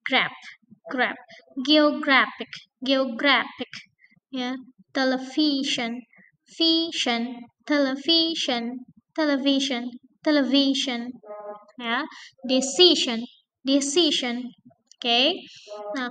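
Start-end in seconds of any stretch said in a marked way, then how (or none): 1.7-3.7 Geographic, GRA stressed. Shown as a demonstration. Teacher drilling stress on GRA. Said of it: "pada syllable before ending". 7.7-11.1 television, VI stressed. Shown as a demonstration. Teacher drilling television with VI stressed. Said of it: "pada syllable before ending". 12.5-14.5 decision, CI stressed. Shown as a demonstration. Teacher drilling decision with CI stressed. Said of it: "pada syllable before ending".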